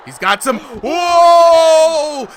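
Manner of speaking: high, loud surprised shout. Real, not acted. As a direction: erupt at the knockdown. Knockdown call, commentator erupts.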